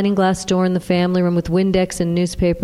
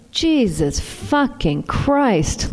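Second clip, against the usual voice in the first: moaned; 4 semitones higher, much slower than usual. Acted. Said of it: "Louise moaned".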